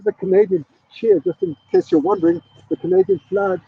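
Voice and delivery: said while turned away from the mic; off-mic aside while turning around; off the microphone. Real, not acted. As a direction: talk facing away from the microphone. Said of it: "I have to talk into the microphone".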